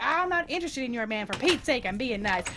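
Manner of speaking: lightly imitated Boston waitress protest; Boston accent. Waitress defending herself over honey, mock Boston accent. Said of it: "in her heavy Boston accent".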